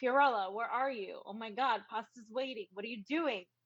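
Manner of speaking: put-on, toned-down, mild yell. Retelling how the speaker's mother called after her: imitating mother yelling. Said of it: "My mother yells at me".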